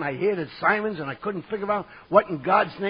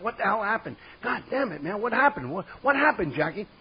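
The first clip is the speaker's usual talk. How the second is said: higher-pitched, bewildered demand; retold frantic confusion; agitated questioning; 3 semitones higher than usual. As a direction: press a friend for answers, pitch raised. Retold panicky questioning after a fit.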